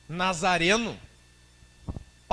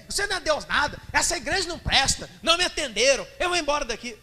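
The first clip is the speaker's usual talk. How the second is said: high, loud resentful outburst; indignant tirade; 7 semitones higher, 6 dB louder than usual. Acted. Offended woman telling Jesus off and leaving the church, loud and high. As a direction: vent every grievance and storm off.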